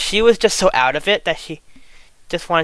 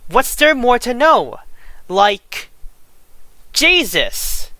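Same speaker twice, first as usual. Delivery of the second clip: higher-pitched, incredulous indignation; exasperated outrage; 4 semitones higher than usual. Real, not acted. Appalled commentator listing a friend's offences, exasperated outrage. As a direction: argue it in appalled disbelief. Outraged rant about defended abuser.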